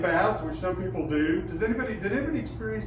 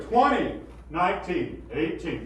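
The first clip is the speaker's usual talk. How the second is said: projected counting; slower than usual. Shown as a demonstration. Teacher showing the right way to count. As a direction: call it across the room. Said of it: "like you're talking to somebody across the room".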